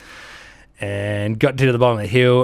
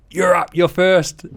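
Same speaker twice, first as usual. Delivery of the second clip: high, loud, slow order; 8 semitones higher, 5 dB louder, slower than usual. Retold or imitated. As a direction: call it out slow and high, like a senior man giving the order under fire. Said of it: "He's like".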